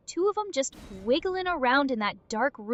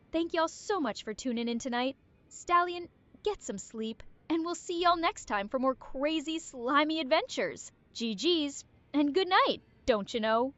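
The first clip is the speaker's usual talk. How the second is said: put-on country bumpkin accent. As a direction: lay on the country twang. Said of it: "Country Bumpkin Arya come back".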